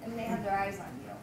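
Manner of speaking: shaky voice from the cold; shivering. Real, not acted. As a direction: talk while shivering with cold. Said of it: "I'm shaking 'cause I'm cold".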